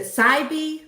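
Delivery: Sibey with a long "eye" first syllable; checking pronunciation. Shown as a demonstration. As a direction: say Sibey as SIGH-bee, as a question. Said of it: "see if I actually say this right".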